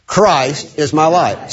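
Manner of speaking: slow, emphatic declaration. Shown as a demonstration. Preacher leading the group to say it, emphatically. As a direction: give each word room, slowly. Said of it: "And emphasize it".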